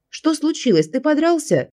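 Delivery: high, startled exclaim; alarmed exclaim. A narrator's reading. Girl alarmed on the phone, high startled exclaim. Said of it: "воскликнула я".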